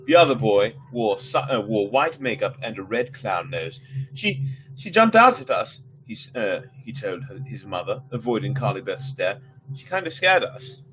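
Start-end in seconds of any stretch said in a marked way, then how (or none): 4.1-5.8 put-on high, louder kid voice; young boy. Boy tells mother. 9.7-10.8 put-on high, louder kid voice; young boy. Boy tells mother.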